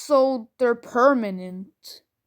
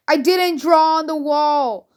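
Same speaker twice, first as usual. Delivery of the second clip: mild mock yell, louder; yelling back; 3 semitones higher, 5 dB louder than usual. Four-year-old son calls back to parent, imitated defensive yell. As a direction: call back defensively like a child in another room. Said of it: "he yelled back".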